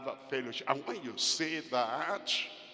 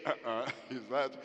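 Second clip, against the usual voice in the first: mocking wife's cooking; 5 semitones lower, 4 dB quieter than usual. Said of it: "he doesn't like you to say".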